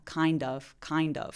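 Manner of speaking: "kind of" with a clear d; d pronounced. Shown as a demonstration. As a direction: sound the d in "kind of". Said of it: "D는 발음합니다".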